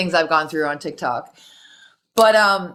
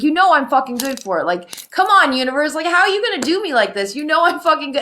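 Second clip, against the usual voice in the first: retold anger; 6 semitones higher than usual. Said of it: "And I was so mad".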